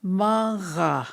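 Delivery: "maga" breathed out in a whisper; whispered example. Shown as a demonstration. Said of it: "one word that came to mind".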